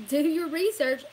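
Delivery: ordinary delivery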